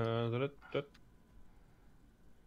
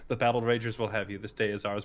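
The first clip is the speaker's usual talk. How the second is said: calmly repeated like a mantra; 3 semitones lower than usual. Acted. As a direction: recite it evenly, like a mantra. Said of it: "he's saying it very calmly".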